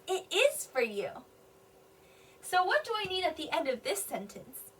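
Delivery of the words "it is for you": slow, "is" stressed, "you" falling; emphatic answer. Shown as a demonstration. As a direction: answer by leaning on "is". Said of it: "And the answer says".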